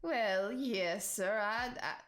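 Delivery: flustered posh gentleman, lightly voiced; posh oxford professor. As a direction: stammer then a lifted "quite so". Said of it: "and Shane says".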